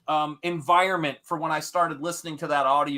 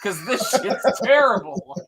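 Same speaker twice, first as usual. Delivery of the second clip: laughing relief; 2 semitones higher, 4 dB louder than usual. Retold or imitated. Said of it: "I was like".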